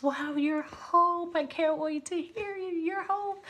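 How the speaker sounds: put-on high, soft Eastern European accent with German twang. Speaker greets the storyteller, imitated Eastern European accent. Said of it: "see if I can do her accent".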